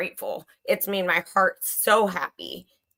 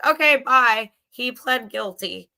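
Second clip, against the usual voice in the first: higher, louder mock sign-off; mock dismissal; 4 semitones higher, 4 dB louder than usual. Imagining the group giving up on the case, mock dismissive. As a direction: imitate a quick, careless goodbye. Mimicking everyone giving up and leaving.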